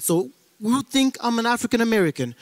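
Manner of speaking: ordinary delivery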